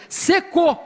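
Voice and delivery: "Secou" said high and final; woman's cold, dead answer; high flat secou. Retold or imitated. Woman telling pastor her love dried up, high and cold. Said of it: "eu preciso botar legenda".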